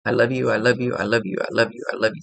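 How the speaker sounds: rapid run of repeated phrases; imitated overheard voice. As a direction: rattle it off on repeat, like someone overheard. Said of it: "you could hear somebody go".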